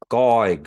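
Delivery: Goigu, loud, throat-caught G K; glottal stop drill. Shown as a demonstration. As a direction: say Goigu with a catch. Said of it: "saying that G K together".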